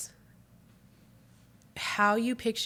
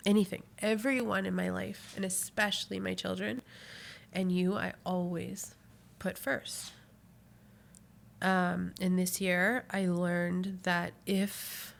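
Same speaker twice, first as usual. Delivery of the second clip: snotty crying. Real, not acted. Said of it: "I instantly got emotional".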